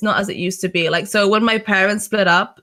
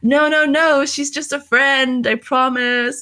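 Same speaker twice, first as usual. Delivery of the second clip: higher-pitched, pleading mock protest; frantic denial; 6 semitones higher, slower than usual. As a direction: imitate someone caught out, frantically denying. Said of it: "a frantic mode".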